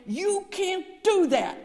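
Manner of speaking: loud, high shout to stop an attack; shouted command. Retold or imitated. Chaplain running at the father beating the mother, shouting. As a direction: yell it forcefully across a corridor. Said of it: "I shouted".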